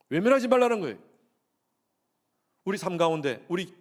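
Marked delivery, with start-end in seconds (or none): 0.1-1.0 loud, high emphatic repeat. Real, not acted. Pastor to congregation, hammering the point loudly. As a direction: drive it home once more.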